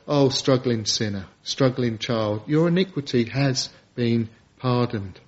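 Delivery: gentle reassurance. Acted. God's gentle words voiced.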